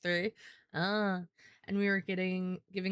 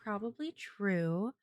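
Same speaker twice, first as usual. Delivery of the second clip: light, sweet, lifted voice; higher sweet voice; 4 semitones higher than usual. Shown as a demonstration. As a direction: pitch it up and sound really sweet. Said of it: "I can go higher".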